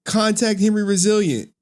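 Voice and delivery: half-serious exasperated demand; retold annoyance. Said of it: "I was about to get pissed off".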